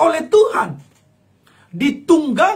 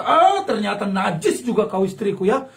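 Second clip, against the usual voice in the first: accusing husband; 4 semitones lower than usual. Acted. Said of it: "langsung berkata".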